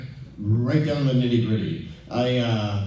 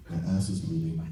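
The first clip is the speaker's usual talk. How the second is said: low, soft, sheepish admission; embarrassed mumble; 8 semitones lower, 5 dB quieter than usual. Retold or imitated. Embarrassed patient telling the volunteer at the front desk, sheepish and soft. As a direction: shrink into the words. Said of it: "and I'm all embarrassed".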